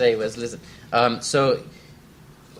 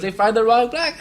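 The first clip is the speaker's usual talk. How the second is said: incredulous punchline; 10 semitones higher, 4 dB louder than usual. Retold or imitated. Retelling the punchline.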